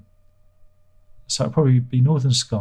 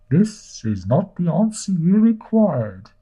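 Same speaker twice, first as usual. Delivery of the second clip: robot voice; 7 semitones higher, slower than usual. Pretend. Robotic machine voice bit.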